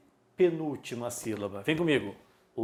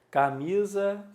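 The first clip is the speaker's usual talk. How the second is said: CAMISA with MI raised in pitch; stressed penultimate syllable; 5 semitones higher than usual. Shown as a demonstration. Teacher naming things around the room, stress on MI in "camisa". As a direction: lift the middle syllable of "camisa". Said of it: "paroxítona".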